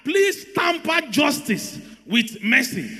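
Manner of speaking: slow, drawn-out mock plea; lawyer's measured appeal, acted out; imitated begging. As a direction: plead like a lawyer begging the judge. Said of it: "the lawyers now start begging".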